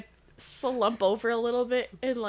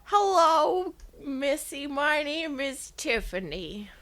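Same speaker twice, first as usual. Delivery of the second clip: grandma voice; 3 semitones higher, slower than usual. Acted. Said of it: "Tiffany, the grandma".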